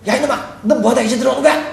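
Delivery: mock-cross dad; angry father. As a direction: scold a son who came home late. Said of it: "막 화가 나 있으니까".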